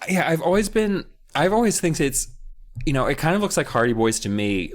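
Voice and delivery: ordinary talk, nothing marked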